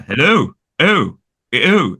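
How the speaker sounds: "Hello" with a slightly transatlantic "oh", falling; "Hello" and "oh" in Guinness's Obi-Wan vowel; slightly different vowel. Shown as a demonstration. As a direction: draw out the final "oh" of "Hello" as a demonstration. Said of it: "his vowels are slightly different".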